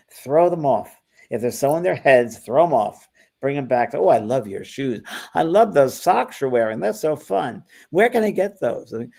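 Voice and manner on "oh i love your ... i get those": bright, high gushing praise; gushing compliment. Shown as a demonstration. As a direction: gush over their shoes to throw them off. Acting out flattering a closed-off person.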